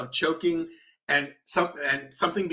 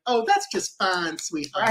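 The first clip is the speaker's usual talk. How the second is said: mock Southern nurse; 3 semitones higher, slower than usual. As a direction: play a sweet Southern nurse, drawn out. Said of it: "nurses with a Southern accent".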